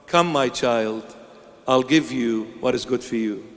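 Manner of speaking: low, soft, gentle invitation; God comforting a fragile believer, softly and low; tender God. Acted. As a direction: coax a frightened child close.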